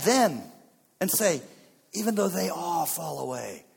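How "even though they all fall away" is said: single out the others without shouting; pointed accusation. Acted. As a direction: boast at conversational volume. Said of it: "he begins to point".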